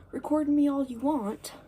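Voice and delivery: mock defiant challenge. Retelling teacher daring student to record him, mock defiant.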